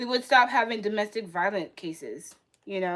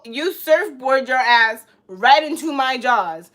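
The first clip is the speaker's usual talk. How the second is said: mock shark orders; 6 dB louder, slower than usual. Acting out a shark's meetup demand.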